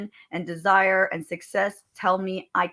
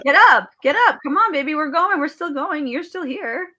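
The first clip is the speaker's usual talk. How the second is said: high-pitched rallying cry; urging pep talk; 7 semitones higher, 6 dB louder than usual. Acted. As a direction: cheer someone back onto their feet, loud then easing off.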